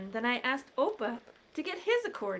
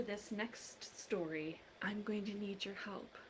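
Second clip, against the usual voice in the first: whisper; 3 semitones lower, 11 dB quieter than usual. Real, not acted. Whispered aside to children.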